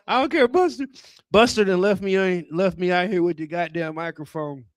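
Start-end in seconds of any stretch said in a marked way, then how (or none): 0.0-0.9 mock offended white audience. White folks got quiet.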